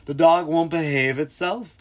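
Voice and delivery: lightly voiced owner airing a grievance; complaining dog owner. Retired owner complains about her dog to Caesar, mock complaining.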